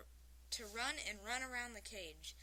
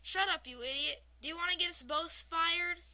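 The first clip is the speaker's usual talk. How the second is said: loud, raised, irritated punchline; angry lion; 6 semitones higher, 8 dB louder than usual. A narrator's reading. Lion snapping at the mime in a joke, angry scolding. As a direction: scold loudly, with a laugh close behind. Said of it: "looking after the angry lion".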